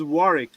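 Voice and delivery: Warwick said as "WORR-ick"; silent second W. Shown as a demonstration. Correcting a friend on the castle's name, Warwick as "WORR-ick". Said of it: "You don't pronounce the second W".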